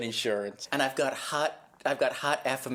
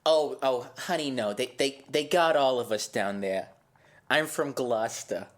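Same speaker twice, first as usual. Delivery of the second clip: put-on Massachusetts accent. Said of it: "You sound like you're from Massachusetts".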